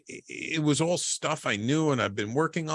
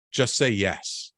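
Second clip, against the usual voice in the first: inner voice; much slower than usual. Retold or imitated. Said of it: "the little voice in the back of my head".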